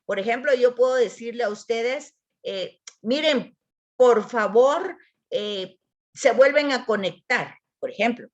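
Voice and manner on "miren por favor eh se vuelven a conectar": intentional delivery. Shown as a demonstration. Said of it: "la voy a leer poniendo, eh, la intención".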